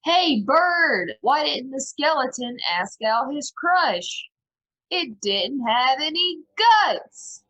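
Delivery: high, loud, drawn-out heckle; yelling. Acted. Player casting Hideous Laughter on a bird, yelled joke. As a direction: yell the joke slowly, building to the punchline. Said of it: "I probably yell".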